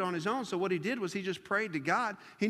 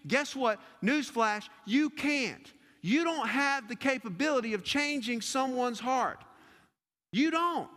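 higher, louder, rising preaching; preaching at full force; 6 semitones higher, 3 dB louder than usual. Acted. Pastor urging worn-out listeners, preaching at full force. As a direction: build the exhortation to a peak.

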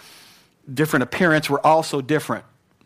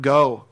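"go." pressed louder; stress on go; 3 dB louder than usual. Shown as a demonstration. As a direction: lean on "go.". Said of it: "emphasis on the word".

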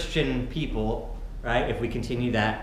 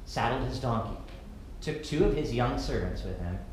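scripture reading. Acted. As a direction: read the passage gently to the congregation. Reads the scripture passage.

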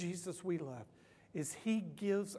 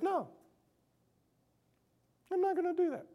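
mock God refusing; 11 semitones higher, much faster than usual.

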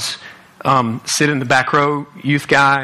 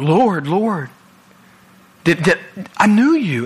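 rising, begging plea to the Lord; pleading on their knees; 3 semitones higher, slower than usual. Retold or imitated. People on their knees pleading before God, rising mock plea. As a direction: beg like someone kneeling, pitch climbing. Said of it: "on their knees going".

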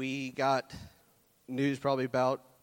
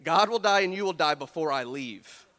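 loud, hammed-up threat of a woman who won't budge; mock threat; 3 semitones higher, 5 dB louder than usual. Woman refusing to leave the prophet, shouting a mock threat. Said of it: "It sounds like she says".

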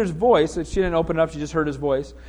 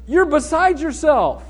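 dismissive disbelief; 5 semitones higher, slower than usual. Acted. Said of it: "They said to her".

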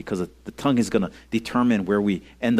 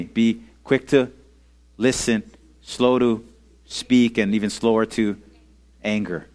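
leading recitation. Shown as a demonstration. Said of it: "let's say, say it with me".

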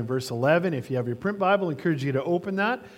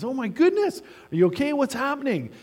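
higher, startled "oh my goodness"; mock alarm; 10 semitones higher than usual. Regular doctor to his fleeing patient, in mock alarm. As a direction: play a doctor suddenly worried for his patient.

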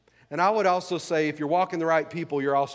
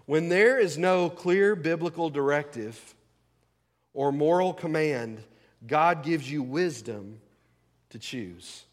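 deliberate statement; slower than usual. Real, not acted. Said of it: "I want to say this".

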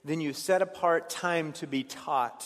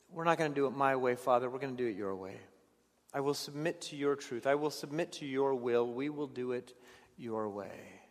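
soft surrender; 3 semitones lower, 7 dB quieter than usual. Acted. Jesus submitting, voiced softly.

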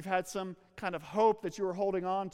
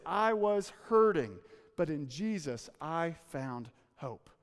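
slow testimony; 3 semitones lower, slower than usual. Acted. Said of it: "She would say this".

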